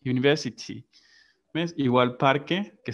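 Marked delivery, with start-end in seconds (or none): 0.0-0.8 university with no r, British style; British English university, r dropped; British pronunciation. Shown as a demonstration. Teacher repeating for the class, British English university. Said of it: "and in British".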